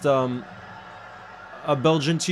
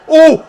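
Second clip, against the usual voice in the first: very high, loud "oh"; excited shout; 11 semitones higher, 12 dB louder than usual. Real, not acted. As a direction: yell out at the shot. Reacts to shot in live match.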